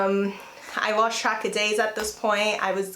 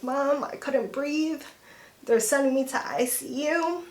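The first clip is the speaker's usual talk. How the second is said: retold tearful call; 4 semitones higher than usual. Patient on FaceTime telling mom about ICU, retold tearful plea. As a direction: recount a crying plea, holding it together. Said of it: "And I'm crying".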